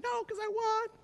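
very high mock-tearful voice; imitated crying camper. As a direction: pitch it way up like an upset kid. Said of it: "he was crying".

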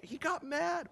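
high-pitched, soft mock upset; imitated crying camper. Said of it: "he was crying".

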